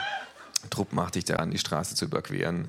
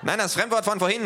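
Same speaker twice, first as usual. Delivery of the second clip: loud, high, angry thug; calling out; 6 dB louder than usual. A narrator's reading. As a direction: bark the order. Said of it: "ruft der Kleine". (laut und hoch gerufen)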